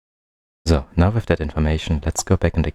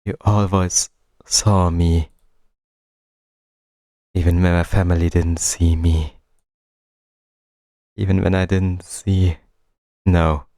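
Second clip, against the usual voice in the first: slightly heightened, deliberate recital; dramatic reading. Acted. Reads game's lines aloud.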